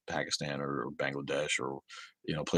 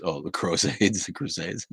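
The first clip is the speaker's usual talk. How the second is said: normal talking voice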